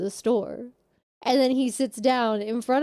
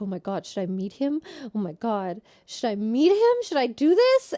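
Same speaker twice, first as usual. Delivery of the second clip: mock frantic, panicked, pitch swooping and rising. Retelling a woman deciding whether to meet for coffee, imitating a panicked woman. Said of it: "she like is panicking. She's like".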